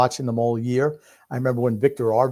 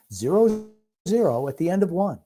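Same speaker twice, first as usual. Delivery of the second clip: announcer cadence, pitch raised on zero; radio announcer voice; 5 semitones higher than usual. Shown as a demonstration. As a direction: say zero zero like a radio play-by-play man. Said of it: "Let's deliver it in that radio voice".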